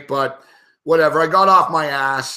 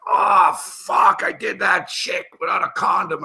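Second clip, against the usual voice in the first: panicked outburst; 3 semitones higher than usual. Retold or imitated. Guy in clinic realizing he skipped a condom, panicked yelp. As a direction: yelp as the fear hits.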